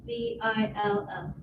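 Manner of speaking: letter by letter, evenly spaced; name each letter separately; spelling it out. Real, not acted. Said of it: "the winner has to spell".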